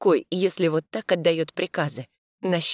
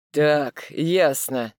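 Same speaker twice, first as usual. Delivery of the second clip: displeased; 3 dB louder, much slower than usual. Acted. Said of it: "недовольно цокает тот".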